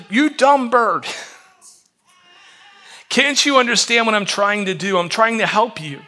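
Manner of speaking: lightly acted exasperation, easing by the end; mild frustration. Man scolding a bird he is trying to help, mildly frustrated. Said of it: "in the midst of his frustration, he said".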